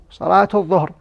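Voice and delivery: "Salatu dhuhr" joined by the -tu ending; ta marbuta as t. Shown as a demonstration. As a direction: pronounce the t in "Salatu dhuhr", no h before dhuhr. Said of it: "As a ta".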